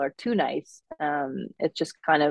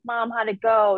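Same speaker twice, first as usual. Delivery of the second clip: put-on her own young self, Minnesota accent dialed up; 6 semitones higher than usual. Daughter asks mom about the mortgage, Minnesota accent. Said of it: "dial up that accent".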